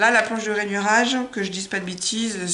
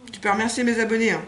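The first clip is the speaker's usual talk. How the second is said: talking through a mouthful; eating chocolate; 3 semitones higher, faster than usual. Real, not acted. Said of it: "Dit-elle la bouche pleine".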